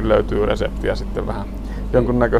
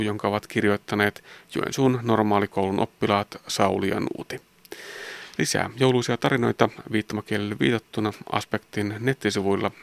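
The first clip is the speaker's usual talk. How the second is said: programme sign-off read; 7 dB quieter than usual. Acted. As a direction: read out the closing announcement clearly. Reads the programme's closing. (radion rauhallinen loppujuonto)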